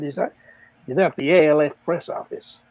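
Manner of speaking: lightly put-on American stockbroker; half-hearted attempt at an American accent; bad American accent. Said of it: "Don't make me do an American".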